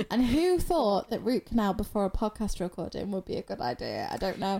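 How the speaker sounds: slightly slurred, numb mouth; slurred speech. Real, not acted. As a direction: talk through a numb half face. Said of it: "If I sound slightly slur".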